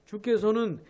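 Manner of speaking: the verse repeated slowly and deliberately; preacher rereads the verse for emphasis; slow emphatic rereading. Shown as a demonstration. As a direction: read it again, leaning on each phrase. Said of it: "이 절 후반에 나온 이, 이 말씀".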